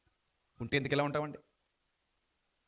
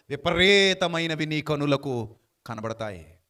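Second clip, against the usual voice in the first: drawn out, deliberate reading; slow measured verse reading; slow scripture reading; 4 semitones lower, 4 dB louder, much slower than usual. Shown as a demonstration. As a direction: read it slowly, letting each word land. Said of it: "ముప్పై మూడులో అంటాడు".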